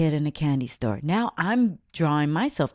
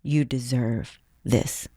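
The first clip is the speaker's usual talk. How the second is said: lower, slow, lightly voiced divine voice; a hint of a calm God gifting; God's voice; 4 semitones lower, slower than usual. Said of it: "it was God saying".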